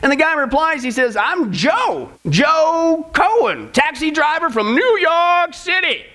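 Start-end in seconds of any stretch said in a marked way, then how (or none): 1.2-6.1 a slow, slightly higher New York cabbie voice; East Coast accent. Acted. Taxi driver introducing himself to Saint Peter in a light New York accent. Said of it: "It was supposed to be East Coast".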